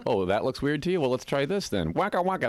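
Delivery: playful showing off. Retold or imitated. Acts out showing off to brothers.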